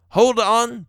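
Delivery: calling back. A narrator's reading. Father answering wife's dinner call, calling back.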